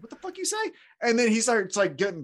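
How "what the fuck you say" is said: mock angry. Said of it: "He's like".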